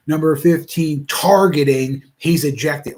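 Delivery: a hint of an angry referee call; barking referee. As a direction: bark it like a mad ref announcing. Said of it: "you could hear it in the referee's voice".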